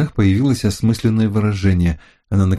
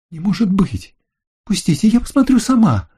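disbelief; 12 semitones higher than usual. Acted. Lucille finds swimsuit missing.

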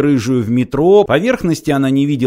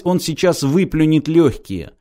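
usual speaking voice

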